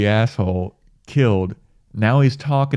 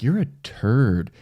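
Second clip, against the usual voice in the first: mocking god; 3 semitones higher, slower than usual. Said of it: "God is even mocking him".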